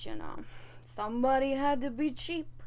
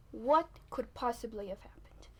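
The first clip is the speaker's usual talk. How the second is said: whispered thought; 3 semitones lower, 6 dB quieter than usual. Retold or imitated. Thinking in the shower.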